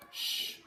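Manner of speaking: unvoiced hushing Shh; sh sound. Shown as a demonstration. Teacher modelling the sound sh for pupils. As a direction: hold a soft Shh. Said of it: "try and say it with me".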